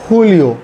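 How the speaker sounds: "हुलियो" with a breath of kh at the start; J between h and kh. Shown as a demonstration. Teacher giving another J example, h-kh sound. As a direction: soften the J of "हुलियो" towards h. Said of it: "हे और खे के दरमियान की आवाज़ है".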